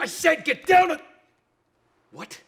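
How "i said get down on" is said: loud commanding yell; shouting. Acted. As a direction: bark the order. Cop yelling at suspect.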